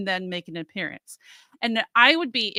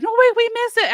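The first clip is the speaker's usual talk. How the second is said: higher, pleading fan voice; mock pleading fans; 13 semitones higher, 7 dB louder than usual. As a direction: beg like a fan missing the show. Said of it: "everyone's like".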